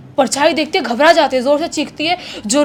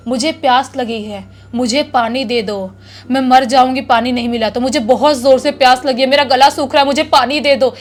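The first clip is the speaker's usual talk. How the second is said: put-on ghost girl crying out for water. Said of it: "ऐसे चिल्ला चिल्ला कर कोई लड़की ज़ोर ज़ोर से बोल रही है".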